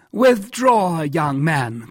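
high, loud command to withdraw; crying out. A narrator's reading. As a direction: call out sharply, pitched well up. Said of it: "cried Jussac".

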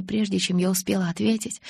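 plain reading voice

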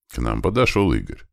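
ordinary delivery

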